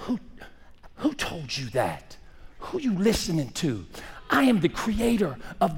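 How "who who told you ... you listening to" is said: gentle questioning. Acted. God questioning Adam and Eve.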